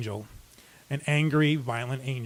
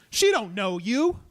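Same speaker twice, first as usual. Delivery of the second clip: soothing, slow; 4 semitones higher, slower than usual. Retold or imitated. Calming an armed, angry stranger.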